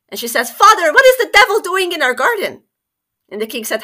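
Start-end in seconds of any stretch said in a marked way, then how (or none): 0.5-2.6 high, loud startled cry; alarmed cry. Acted. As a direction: cry out at the sight of the devil. Princess sees devil, alarmed.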